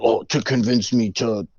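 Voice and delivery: a hint of a harsh old man; slightly harshened voice for an aged character; deepened old-man voice. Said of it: "I was just deepening my voice because he was old".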